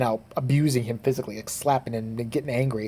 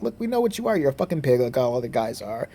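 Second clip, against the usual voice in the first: mocking girls. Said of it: "They're basically like".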